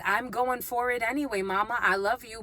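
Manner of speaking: lightly voiced Southern accent. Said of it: "someone has a southern accent for sure".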